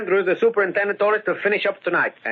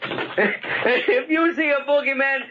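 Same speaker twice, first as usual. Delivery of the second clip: teasing; 7 semitones higher than usual. Acted. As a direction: needle a jumpy friend. Joe teases scared Tom.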